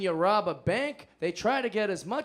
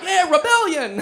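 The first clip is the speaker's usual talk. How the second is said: high, loud gleeful whoop through laughter; mock rebel cheer; 9 semitones higher, 7 dB louder than usual. Teen self cheering on rebellion, gleeful whoop. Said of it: "it was like".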